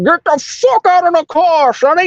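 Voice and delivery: put-on high, creaky old-man bark at a driver. Old man yelling at a young driver, high cranky voice. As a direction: play a cranky old geezer yelling through the window. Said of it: "Or he's like".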